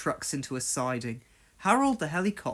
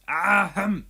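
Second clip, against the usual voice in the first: stern; 3 semitones higher than usual. Acted. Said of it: "said a stern-sounding voice".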